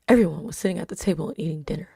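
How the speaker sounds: quick laughing whisper; embarrassed reading aloud. Real, not acted. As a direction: rush through it, embarrassed. Laughs over her own writing.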